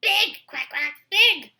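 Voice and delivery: high, loud flustered quacks; sputtering duck. Acted. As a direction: sputter it in a flurry. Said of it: "Duck sputtered".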